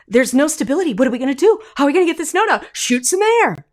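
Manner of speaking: high, whiny cartoon voice; voice of the air. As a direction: play the air as a clueless helper. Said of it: "air's panic continued".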